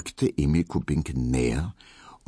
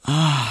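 blissful sigh; 9 semitones higher, 4 dB louder than usual. A narrator's reading. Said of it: "seufzte Emil Kubinke".

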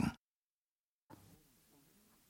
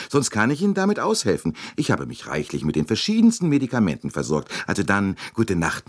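high, bright-pitched fussing matron pressing a gift; chatty older American lady; 5 semitones higher than usual. Acted. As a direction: gush it out as the talkative Mrs Hubbard, much higher than the narration. Mrs Hubbard voiced by narrator.

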